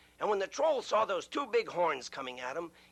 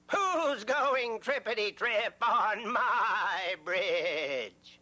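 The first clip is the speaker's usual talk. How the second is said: slow, drawn-out troll roar with a higher pitch; troll yell; 5 semitones higher, much slower than usual. Acted. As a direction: stretch every word like an angry troll. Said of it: "He jumped up and yelled".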